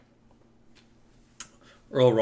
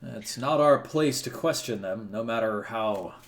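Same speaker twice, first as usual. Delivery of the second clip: through gritted teeth. Acted. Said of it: "he sort of grits his teeth".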